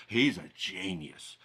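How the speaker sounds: hushed awe. Acted. Mock awed art crowd.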